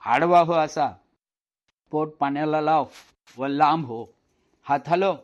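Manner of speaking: loud coaching calls across water; calling out instructions. Acted. Swimmer in the well calling instructions to Shyam, loud. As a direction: shout each step to the boy.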